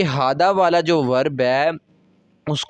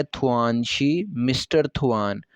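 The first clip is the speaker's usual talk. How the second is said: slow dialogue reading; 2 semitones lower, 3 dB quieter, slower than usual. Shown as a demonstration. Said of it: "कहती है".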